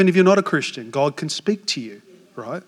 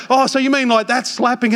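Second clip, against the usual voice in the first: puzzled; 6 semitones higher than usual. Retold or imitated. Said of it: "And then I'm like".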